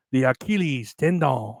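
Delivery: mock foreign accent that drifts into French; a failed mock accent sounding French; put-on accent that comes out French. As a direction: aim for an Asian accent and land on French. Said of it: "I was sounding French".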